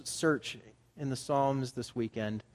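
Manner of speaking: ordinary talk, nothing marked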